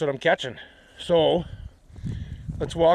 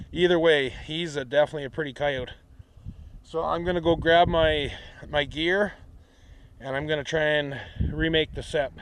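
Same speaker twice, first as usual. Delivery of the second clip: winded, breathing hard between words. Real, not acted. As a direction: talk while catching your breath. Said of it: "Sorry I'm out of breath".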